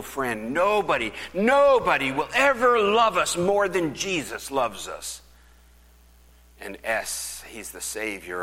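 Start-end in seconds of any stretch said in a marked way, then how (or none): 0.5-5.2 high, loud, rising preacher's cry; lifted, ringing pulpit call; fervent preaching. Real, not acted. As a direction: proclaim it with full force. Preacher building to climax.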